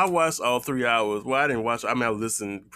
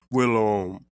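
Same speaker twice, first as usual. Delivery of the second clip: lightly voiced Tyler Perry; a hint of Tyler Perry; Tyler Perry impression; 4 dB louder than usual.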